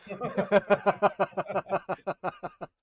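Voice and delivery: high, slow words squeezed out through laughter; laughing. Real, not acted. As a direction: say it while cracking up. Laughing at own joke.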